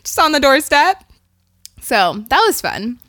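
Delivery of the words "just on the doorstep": put-on cooing at a child. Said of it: "And I was like".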